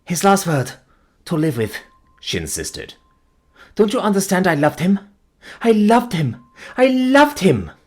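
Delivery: building from pleading to a high, loud cry; insist, then cry out her love; rising desperate cry. Acted. Fiancée insisting on his last word, building to a high loud cry.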